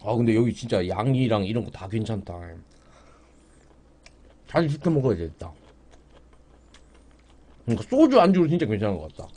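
speaking between bites; chewing while talking. Real, not acted. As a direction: mouth full of food. Seen 4: Eats dumplings with chopsticks, talks with mouth full throughout.

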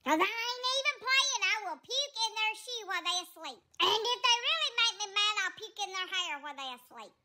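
lightly put-on sassy cat voice; sassy cat Willow. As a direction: talk back like an offended diva cat. Willow threatens sitters.

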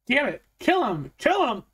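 high-pitched, frantic command; loud, high angry outcry; furious yelling. A narrator's reading. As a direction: yell orders at the gang, pitch leaping.

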